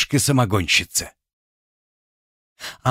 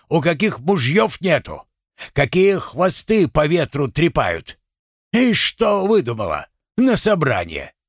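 high, angry mocking rant; furious husband; 5 semitones higher than usual. Husband mocking his wife's wish, high and furious. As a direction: berate her, voice climbing.

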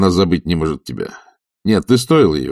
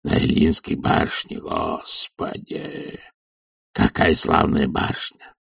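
put-on hoarse old servant; 2 semitones lower, 4 dB quieter than usual. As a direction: wheeze out the blessing like an old servant. Захар вспоминает. (сиплый голос старого слуги)

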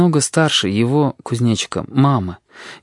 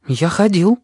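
put-on lightly raised boy's voice; child voice; 7 semitones higher than usual. A narrator's reading. Boy answering the nurse, a hint of a child's voice. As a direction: answer simply, like a small boy.

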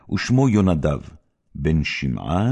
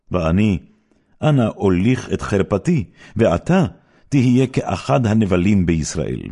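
louder, rising urgent plea; pleading; 3 semitones higher, 4 dB louder than usual. Acted. Tamar begs her brother Amnon not to force her, urgent louder plea. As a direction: beg him to stop, pressing harder.

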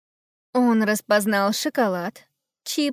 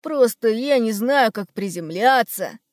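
sheepish admission. Acted. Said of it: "признался Хрум".

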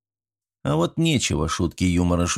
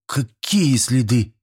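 put-on slow, higher boy's voice with a hiccup; hiccuping question; 4 semitones higher, slower than usual. A narrator's reading. Nervous boy hiccups his question to the teacher. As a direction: ask it through a hiccup. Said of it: "икнув, переспросил Швец".

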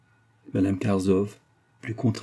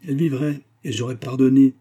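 raised-pitch cry of regret; moaning lament; 5 semitones higher, 6 dB louder than usual. A narrator's reading. Unhappy mother saying she would have forgiven, moaning. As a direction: lament it, voice lifted. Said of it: "gémit la malheureuse femme".

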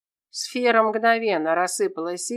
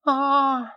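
tearful wail; 6 semitones higher than usual. Acted. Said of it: "Тера всхлипнула".

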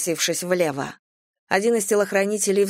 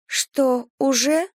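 higher, hurt pouting question; offended girl; 6 semitones higher, much slower than usual. A narrator's reading. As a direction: sound put out and pouty. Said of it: "почему-то обиделась она". (обиженно, высоким голосом)

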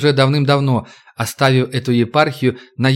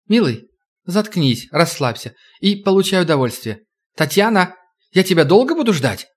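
woman's voice; 5 semitones higher than usual. Acted. Woman character voiced higher.

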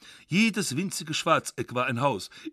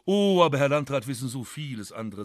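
falsely courteous; 3 dB louder than usual. Retold or imitated. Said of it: "sagte ich schnell in der vornehmen dritten Person und so falsch".

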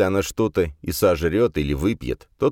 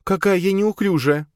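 much higher, loud woman voice; loud female exclamation; 3 dB louder than usual. A narrator's reading. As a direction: voice her loud fake fluster. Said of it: "Она сказала это громко".

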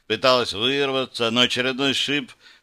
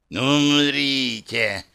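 slow, drawn-out roaring threat; demon roar; 3 semitones higher, much slower than usual. Acted. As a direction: bellow it like a fire demon. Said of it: "ревел демон без конца". (рёв демона)

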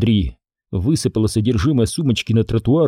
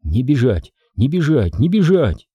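panicked self-talk building in pitch; rising panic; 2 semitones higher than usual. Acted. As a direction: chant it to yourself, more frantic each time. Jenny panicking, chanting to herself.

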